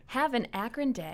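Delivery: radio voice. Shown as a demonstration. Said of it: "I tried to do my best radio voice".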